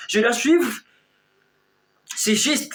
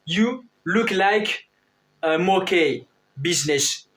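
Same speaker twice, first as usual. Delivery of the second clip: "You look like a monkey business" said slowly, word by word; slow model sentence; slower than usual. Shown as a demonstration. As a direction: spell the English phrase out slowly for the class. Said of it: "on dit".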